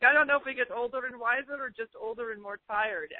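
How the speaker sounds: imitating dad's thick Italian accent; playful Italian dad impression. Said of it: "my father who's got this thick Italian accent".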